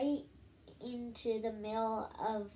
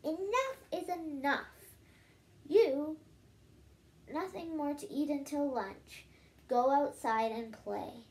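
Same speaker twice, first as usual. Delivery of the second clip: higher, louder mom laying down the law; scolding yell; 3 semitones higher, 3 dB louder than usual. Acted. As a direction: scold him firmly, calling it out. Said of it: "yelled his mom".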